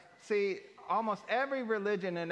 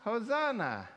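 leading Hosanna; 6 semitones higher than usual. Shown as a demonstration. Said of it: "Today we shout".

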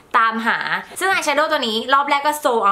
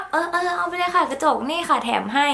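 lightly voiced shop assistant, higher pitch; higher-pitched take on an obliging clerk; imitated shop staff; 5 semitones higher than usual. Shop assistant handing a customer a free mirror, imitated shop staff. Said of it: "เอาพนักงานก็".

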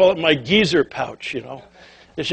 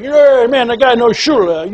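excited cheer; 4 semitones higher, 3 dB louder than usual. Retold or imitated.

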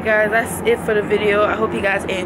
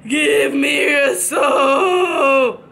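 drawn-out spooky demand; slow scary voice; 3 dB louder, much slower than usual. Pretend. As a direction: draw it out like a haunting. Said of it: "do I not look scary".

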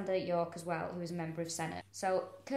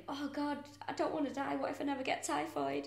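higher, fretful act breaking into louder laughter; laughing mock worry; 7 semitones higher, 8 dB louder than usual. Imagined runaway fears missing out, mock-worried and laughing. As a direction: fret in a higher voice, laughing through it.

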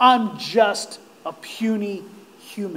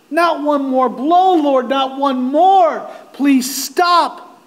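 mildly anguished plea, slowing on the repeat; crying out; 2 semitones higher, slower than usual. Acted. Sufferer begs the Lord for relief, crying out. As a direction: beg for the blows to stop. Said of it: "he cried".

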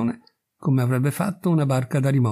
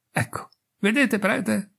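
triumphant cry; 8 semitones higher, slower than usual. Acted. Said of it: "gridò".

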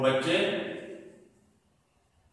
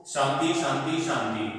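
hurried careless peace chant; rushed. Shown as a demonstration. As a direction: rattle off the three शांति. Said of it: "तो शांति नहीं".

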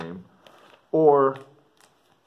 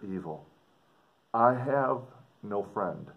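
put-on measured read-aloud of an old letter. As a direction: read it like the writer speaking to his sister. Teacher reads second letter aloud.

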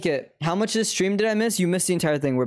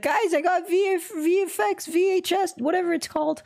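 imitating a friend; 10 semitones higher than usual. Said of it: "He was like".

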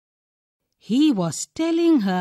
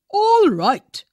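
eager agreement; 8 semitones higher, 7 dB louder than usual. A narrator's reading.

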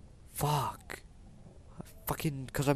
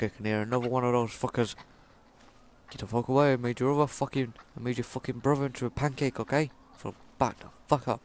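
loud furious taunting, fast; bellowing threats at a game enemy; angry shout at enemy; 6 dB louder, faster than usual. Real, not acted. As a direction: yell at the beast to back off. Shouting at attacking animal.

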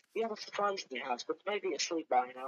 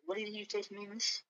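challenging; 5 semitones higher than usual. Acted. Waitress confronts the customer.

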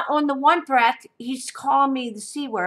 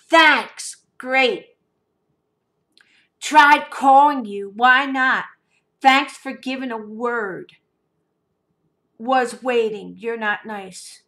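mocking his sulk; 5 dB louder, slower than usual. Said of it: "he was so pissed".

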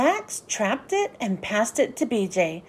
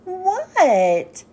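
surprised answer; 6 semitones higher than usual. A narrator's reading. Froggy answers his dad's yell, high and surprised. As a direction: snap your head round and answer.

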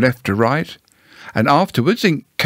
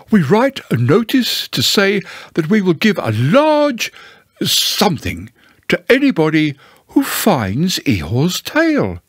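higher, swooping self-important owl; lightly voiced Owl, instructing; 6 semitones higher than usual. Owl tells Pooh about writing a notice, pompously. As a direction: explain it importantly, pitched up.

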